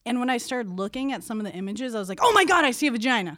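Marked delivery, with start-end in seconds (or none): 2.2-3.4 startled realization. Retold or imitated. Retells her startled reaction to inkblots.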